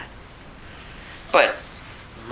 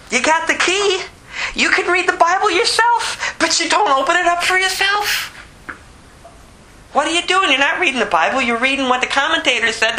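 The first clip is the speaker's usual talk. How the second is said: fiery pulpit preaching, pitch climbing; full force preaching; 7 semitones higher than usual. Acted. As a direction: preach it hard at the hearers.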